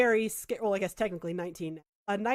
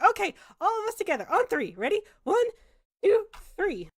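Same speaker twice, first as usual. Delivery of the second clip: higher, firm counting; rallying villager; 10 semitones higher, 5 dB louder than usual. Acted. The villager leads everyone in pulling off the trap, rallying. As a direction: count them in like a rallying helper.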